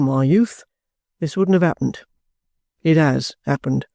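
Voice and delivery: lightly voiced soldier, in short measured phrases; stoical trooper. Trooper explains his plight to the young lady, stoical. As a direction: lay out the facts one by one, without complaint. George's dialogue in the narration.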